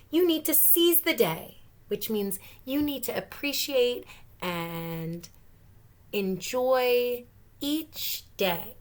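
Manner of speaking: a mom setting her son straight; mom's voice. Acted. Mom lecturing the Fanatic.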